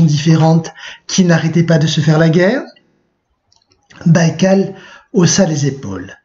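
steady classroom read-aloud of a novel excerpt, dialogue lightly voiced. A narrator's reading. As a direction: read the passage to the class, clear and even. Teacher reads novel excerpt aloud.

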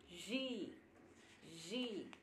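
Ji said softly, twice, copying the Bengali; Bengali vowel. Shown as a demonstration. Showing viewers an odd Bengali vowel, soft Ji. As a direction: breathe out a soft Ji as a vowel sound. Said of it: "Esta también es una vocal".

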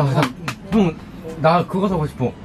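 usual speaking voice

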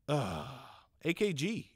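usual speaking voice

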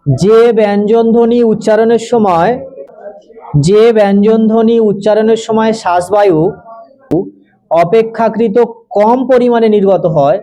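slow, word by word, for pupils to write; slow dictation. Acted. Teacher dictates a definition to pupils, slowly.

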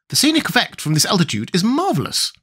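high, educated creature; Wogglebug's voice. A narrator's reading. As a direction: remark in a high scholarly voice. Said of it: "commented the educated Wogglebug".

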